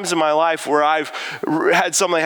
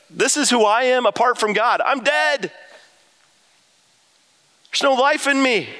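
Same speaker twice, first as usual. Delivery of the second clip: higher, broken admission of emptiness; despairing confession; 6 semitones higher than usual. Retold or imitated. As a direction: confess being dead inside, pained. Elijah voiced identifying with boy.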